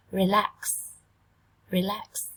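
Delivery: "Relax" with stress on -lax; stress second syllable. Shown as a demonstration. Teacher showing the class stress on the second syllable. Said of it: "Trọng âm, dương tiết thứ hai".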